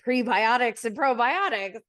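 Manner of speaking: mildly sing-song mock repetition. Corey making fun of her health drinks, mildly mocking. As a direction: lightly ridicule the two terms, pitched a little up. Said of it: "trying to make fun of".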